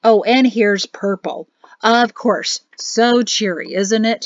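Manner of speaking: slow, sour grumble to himself; grumbling. Acted. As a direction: complain sarcastically under his breath. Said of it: "he grumbled".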